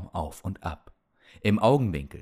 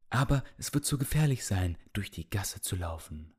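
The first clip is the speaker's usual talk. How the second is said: shaky voice; 4 dB quieter than usual. Acted. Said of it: "mit zittriger Stimme".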